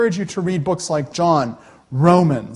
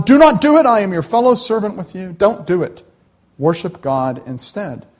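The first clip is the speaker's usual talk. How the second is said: angel forbidding John to worship him, urgently; 4 semitones higher, 5 dB louder than usual. Acted.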